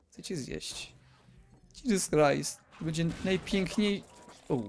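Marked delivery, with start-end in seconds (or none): 0.1-0.9 soft breathy whisper, no voice; whispered zombie threat. Pretend. Gamer whispering the zombie's threat to himself, softer. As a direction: whisper it like a creeping monster.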